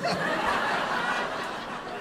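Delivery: high breathy giggle; embarrassed high laugh. Retold or imitated. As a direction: giggle sheepishly. Wife laughs on phone.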